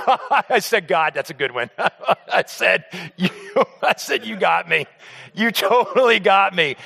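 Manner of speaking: words broken by laughter; laughing through it. Retold or imitated. Son laughing at his dad's accidental prank. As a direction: laugh as you concede the joke.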